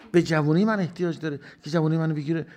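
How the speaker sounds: forceful. Acted. Rhetorical question at full force.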